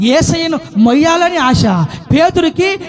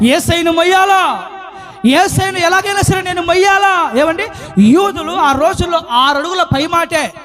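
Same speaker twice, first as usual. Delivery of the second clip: fervent sermon delivery; impassioned preaching; 3 semitones higher than usual. Acted. Preacher extolling Mary's desire to carry Jesus, fervent. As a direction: preach it with rising fervor.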